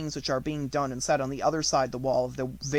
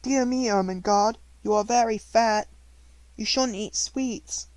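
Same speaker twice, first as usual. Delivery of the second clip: higher, louder prim scolding aunt; imitating the aunts; 9 semitones higher, 6 dB louder than usual. Girl imitating her aunts nagging her. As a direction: mimic a fussy aunt nagging. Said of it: "My two aunts are always saying".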